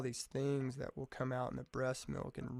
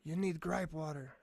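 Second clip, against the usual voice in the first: put-on a light, half-hearted Irish accent; mock Irish lilt, barely there; bad Irish accent; 2 semitones higher than usual. Church lady from Ireland advising a tired dad, light Irish accent. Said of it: "that's my Irish accent".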